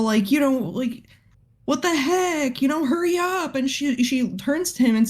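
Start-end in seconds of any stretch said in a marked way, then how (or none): 1.7-3.5 mimicking the brother. Teacher voicing the impatient brother.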